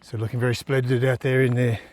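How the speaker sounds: lightly put-on South African accent for a cricket commentator; hammy South African commentary, measured and even; bad South African accent. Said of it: "with my worst South African accent".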